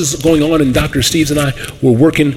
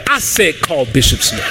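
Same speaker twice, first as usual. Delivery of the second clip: slow, commanding divine voice; voice of God. Retold or imitated. The Lord ordering the pastor, slow and commanding. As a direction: give it slow as an order from above. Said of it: "He said".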